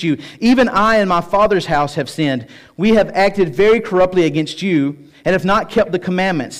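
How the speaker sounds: measured, emphatic public Bible reading; scripture prayer reading. Acted. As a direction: proclaim the prayer, easing down at the close. Reads Nehemiah's prayer aloud.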